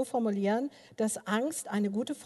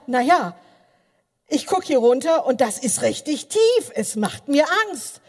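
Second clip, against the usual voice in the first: frightened wife; 5 semitones higher, 9 dB louder than usual. Retold or imitated. Scared wife answers husband.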